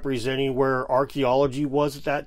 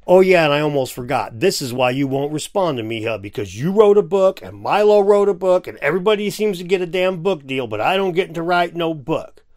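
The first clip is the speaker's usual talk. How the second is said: mock jealous whine; 3 semitones higher, 4 dB louder than usual. Mock jealous rant at co-host.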